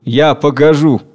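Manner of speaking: slow, grudging obedience; sullen, submissive. Acted. Worker yields to the king, sullen and submissive. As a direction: give in sullenly, drawing the words out. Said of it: "угрюмо и покорно".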